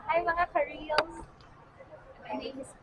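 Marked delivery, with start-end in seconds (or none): 0.1-1.1 lighter, higher retake of the greeting; higher-pitched greeting. Real, not acted. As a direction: lift the pitch on the hello. Greeting redone after laughing at herself. (mas mataas na tono ng pagbati)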